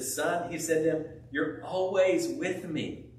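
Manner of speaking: gentle father. Retold or imitated.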